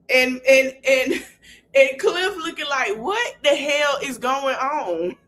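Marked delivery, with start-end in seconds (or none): 3.0-5.1 slow, higher mock bafflement; baffled. Recapping how a man looked at the quarrel, mock baffled. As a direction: draw it out slowly, imitating someone baffled. Voices Cliff's baffled reaction.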